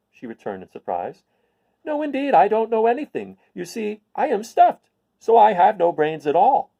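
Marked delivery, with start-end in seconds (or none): 1.8-6.7 much higher, louder, mildly sad scarecrow; a touch of woe in the straw man's voice; high scarecrow, lightly sad. Acted. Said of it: "he answered sadly".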